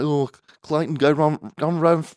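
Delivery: high, loud egging-on call; mock hyped-up brother. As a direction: whip him up like a cheering brother.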